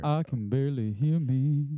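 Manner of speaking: muffled, underwater-sounding mic; talking through a bad headset mic; bluetooth call mic. Real, not acted. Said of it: "do you sound like you're underwater".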